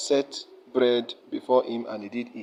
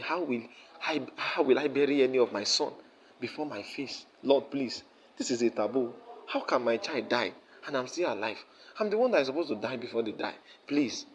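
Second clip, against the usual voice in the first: crying plea; 4 dB quieter than usual. Retold or imitated. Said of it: "He was begging God. He was crying".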